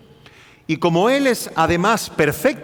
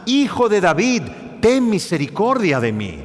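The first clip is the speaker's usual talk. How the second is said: crying out; 3 semitones higher than usual. Retold or imitated. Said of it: "comenzó a gritar más y más".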